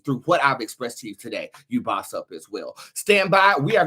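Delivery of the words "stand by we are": announcer call. Real, not acted. Announcing the next topic.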